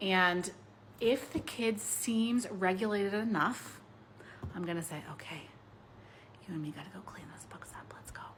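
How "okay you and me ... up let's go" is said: quick, hushed, very quiet, very soft whisper. Demonstrating how to speak to a child at cleanup time, in a whispered voice. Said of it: "Notice I'm using like a whispered voice".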